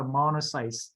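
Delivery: "monocytes" finished on an audible S; sounded final S. Shown as a demonstration. Teacher reminds student, final S sounded in "monocytes". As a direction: keep the S at the end of "monocytes". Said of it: "it have the S at the end".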